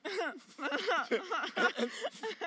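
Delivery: long high laugh. Real, not acted. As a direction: laugh before speaking. Laughing at own story.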